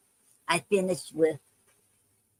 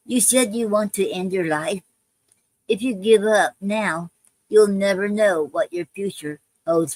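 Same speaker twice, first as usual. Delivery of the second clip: poem reading. Acted. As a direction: read it like a heartfelt poem. Reads her own poem aloud.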